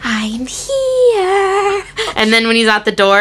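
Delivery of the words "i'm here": high, slow quoted voice; movie quote impression. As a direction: stretch it out like the movie. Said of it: "you doing an impression of your favorite quote".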